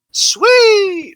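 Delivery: high, drawn-out mimicry of a sound clip; imitated wrestling catchphrase. Speaker recalling nineties wrestling samples, mimicking a drawn-out catchphrase. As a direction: stretch SWEET out long and high. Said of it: "Bucho's been playing the fucking samples".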